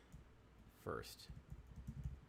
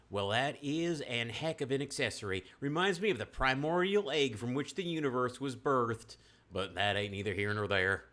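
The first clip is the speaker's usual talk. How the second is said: put-on louder New Mexican old-timer twang; New Mexican accent; 5 semitones higher, 7 dB louder than usual. Nash admiring the pearl, New Mexican accent. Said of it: "that's my New Mexican accent".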